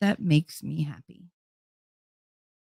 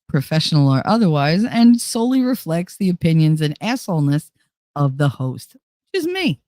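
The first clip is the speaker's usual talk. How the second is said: formal disclaimer; 3 dB louder than usual. Acted. Recites channel disclaimer.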